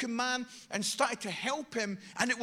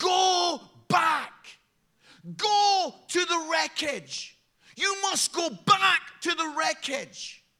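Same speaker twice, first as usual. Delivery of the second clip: screaming, commanding, loud and drawn out; 5 semitones higher, 6 dB louder than usual. Retelling footage of the coast guard ordering a captain back, retelling someone screaming. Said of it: "he's screaming at him in Italian".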